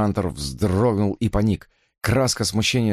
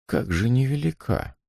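contemptuous echo; 4 semitones higher than usual. Acted. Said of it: "с уничижительным презрением".

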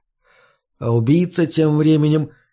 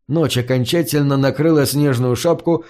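ordinary delivery

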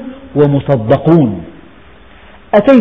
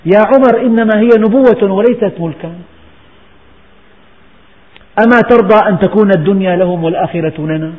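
higher and louder: إنما هي نبوة وليست ملكا; the Prophet's answer to Umar, now raised and forceful; emphatic preaching repeat; 4 semitones higher, 3 dB louder than usual. Retold or imitated. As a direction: proclaim it to the whole room. Same reply repeated with force.

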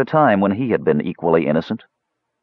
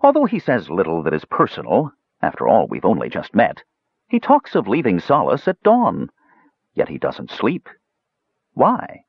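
cheeky dwarf voice; 2 semitones higher than usual. Acted. Dwarf musing about Tanis.

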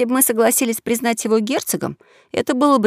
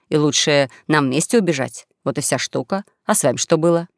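lightly voiced young swindler, lower than the narration; 5 semitones lower than usual. Young swindler explaining his escape to a fellow runaway, lower conversational voice. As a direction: recount it in a lower, matter-of-fact character voice.

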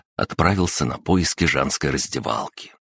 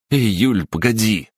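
shouted call, higher and louder; 7 semitones higher, 4 dB louder than usual. Acted. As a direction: call after her across the hall. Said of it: "выкрикнул молодой человек".

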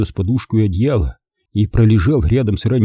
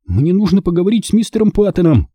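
put-on high, urgent boy; urgent child's demand; blurting out; 9 semitones higher, 3 dB louder than usual. A narrator's reading. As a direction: blurt it out in one breath, pitched high. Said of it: "выпалил мальчик".

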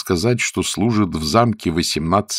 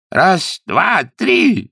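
high, rising count; 11 semitones higher, 3 dB louder, much slower than usual. A narrator's reading. Lord cueing the chorus, high commanding count. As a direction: call the beat out high.

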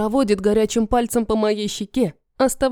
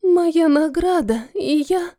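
much higher, slow, timid squeak; trembling squeak; 7 semitones higher, slower than usual. Acted. Asya begs Kadir for her reward, high timid squeak. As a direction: ask for the reward in a tiny high voice. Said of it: "дрожащим голосом пищит Ася".

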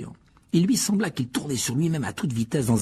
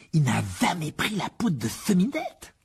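slow, higher, realizing; sudden exclamation; 6 semitones higher, slower than usual. Acted. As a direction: blurt it out in surprise. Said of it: "s'exclama soudain Ron". (Ron s'exclame soudain)

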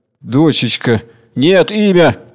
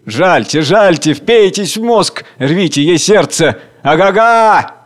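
higher, louder jeering cries; crowd shouting; 5 semitones higher, 4 dB louder, slower than usual. A narrator's reading. The crowd howls the woman into hell, shouting. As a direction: whip up the mob's howl. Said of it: "Общий крик".

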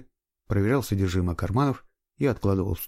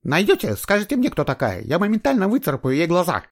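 much higher, louder jealous wife's threat; 10 semitones higher, 5 dB louder than usual. A narrator's reading. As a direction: swear to scratch her eyes out. Ревнивая жена грозит сопернице. (ревнивая угроза, высоко и громко)

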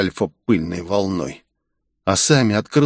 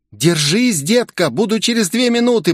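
much higher voice, quick and encouraging; Jeff reassuring; 10 semitones higher than usual. Acted. Jeff answers Sakamoto, reassuring. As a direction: voice Jeff higher, promising help. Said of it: "произнесла Джефф".

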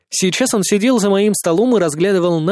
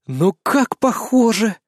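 drawn out, higher, admiring; slow delighted boast; 4 semitones higher, slower than usual. A narrator's reading. Narrator boasts to Svetlana, slow and delighted. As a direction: savour the likeness, slowly.

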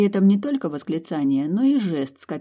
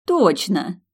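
delighted; 3 semitones higher, 6 dB louder than usual. A narrator's reading. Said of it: "восхищённо".

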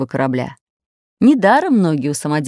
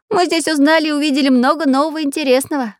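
excited; 9 semitones higher, faster than usual. A narrator's reading. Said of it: "подбегая, сказал Чижик".

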